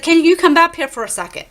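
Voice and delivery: high, loud call for help. Retold or imitated. Calling mom from the hotel window, high urgent call. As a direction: call her back, urgent but hiding it.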